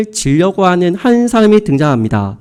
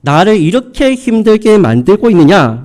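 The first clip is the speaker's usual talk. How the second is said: reproachful father. Acted. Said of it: "라면서 이 자녀들을 원망하고".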